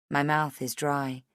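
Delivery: usual speaking voice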